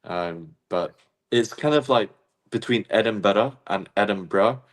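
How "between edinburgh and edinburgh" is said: Edinburgh first as Edinbeta then as Edinbra; two Edinburghs. Shown as a demonstration. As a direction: contrast the two Edinburgh endings. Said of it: "kind of in the middle".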